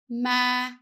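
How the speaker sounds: ma with a falling dấu huyền tone; falling tone demo. Shown as a demonstration. Teacher shows students the falling tone on ma. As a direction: let ma glide down like the dấu huyền tone. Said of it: "with a down tone, the whole word needs to go down".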